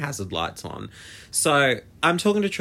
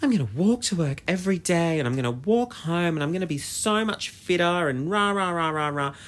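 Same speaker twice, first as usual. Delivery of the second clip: higher, sing-song self-mocking resolve; mock-enthusiastic plan; 5 semitones higher than usual. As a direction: rattle off big intentions, poking fun at yourself. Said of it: "my plan was gonna be".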